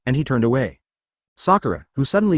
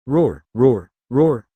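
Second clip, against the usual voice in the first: loud, triumphant roar of joy; wild inner roar; 3 dB louder, much slower than usual. A narrator's reading. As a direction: roar it out in glee. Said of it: "she shouted wildly in her heart".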